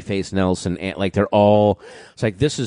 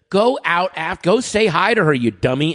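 friend urging; 8 semitones higher than usual. Retold or imitated. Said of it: "Greg Barrett said".

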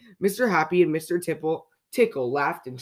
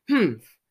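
loud, raised grunt; grumpy humph; 4 semitones higher, 6 dB louder than usual. A narrator's reading. Mister Grumpy is told to change, grumpy grunt. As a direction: grunt in indignation. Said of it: "grunted Mister Grumpy".

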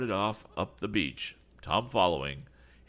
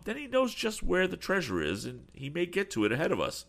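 a mild dismayed outcry, pitched higher and louder; cried out; 14 semitones higher, 3 dB louder than usual. A narrator's reading. Tom fears Berg will reach the treasure first, crying out in mild dismay. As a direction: cry it out, worried they'll be beaten. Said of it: "cried Tom".

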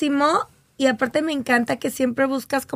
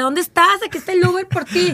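a hint of a worried wife on the phone; impatient wife calling; 4 semitones higher than usual. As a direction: call out for a lost husband. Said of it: "Le decía".

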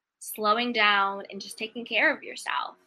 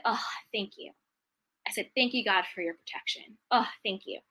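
softer, hushed gratitude; soft grateful thanks; 4 dB quieter than usual. Retold or imitated. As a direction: breathe the thanks gently, like a quiet prayer. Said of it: "I just said".

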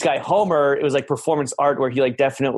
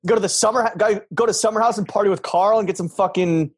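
entitled rich bro; 5 semitones higher than usual. Pretend. Mocking rich Hamptons guy.

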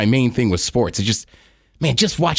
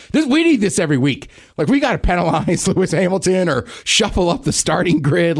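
mock announcers; 4 semitones higher than usual. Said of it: "all the Formula One announcers".

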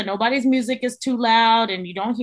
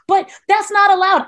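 mock squeaky whine, higher, louder and slow; squeaky worried girl; 8 semitones higher, 6 dB louder than usual. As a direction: imitate the anxious rule-following trainee. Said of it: "real squeaky voice having little girl".

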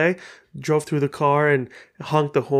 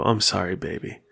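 wife murmuring comfort to crying husband; tender comfort; 6 semitones lower than usual. Retold or imitated. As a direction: console him gently, voice dropping away. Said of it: "And she'd go".

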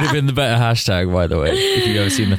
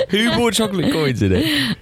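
indignant; 12 semitones higher than usual. Real, not acted. Indignant protest.

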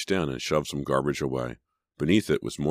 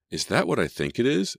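high-pitched, incredulous asking; amazed question; 8 semitones higher, 3 dB louder than usual. A narrator's reading. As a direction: ask as if doubting your eyes. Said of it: "Sydney asked".

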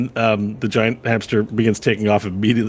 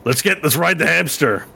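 White Nash; 7 semitones higher than usual. Acted. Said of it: "scratches his chin and he says".

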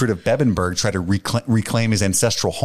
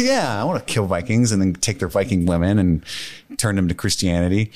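laughing; 2 semitones lower than usual. Acted. Laughing mock Uhtred fantasy.

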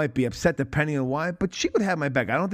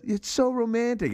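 quoting the bride; 8 semitones higher than usual. Retold or imitated. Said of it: "But when she says".

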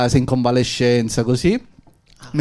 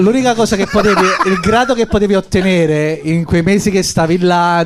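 talking through laughter; laughing; 3 semitones higher than usual. Real, not acted. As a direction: laugh while telling it. Laughing while retelling army story.

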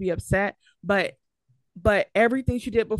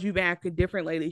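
cold accusation; 2 semitones lower, much faster than usual. Retold or imitated. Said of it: "And then she goes".

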